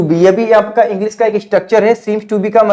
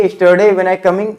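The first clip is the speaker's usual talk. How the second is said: slow model sentence; slower than usual. Shown as a demonstration. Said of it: "English में क्या बोलेंगे?".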